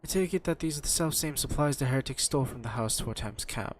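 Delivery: lightly acted, formal character read; measured old-fashioned dialogue reading, understated; voiced game dialogue.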